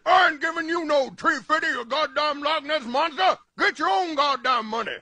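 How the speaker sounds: defiant shout; angry refusal. Acted. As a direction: tell the monster off for good. Refusing the monster angrily.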